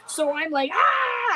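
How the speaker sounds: high mock scream; retold scream. Yelping for her husband while bleeding. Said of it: "I start screaming for my husband".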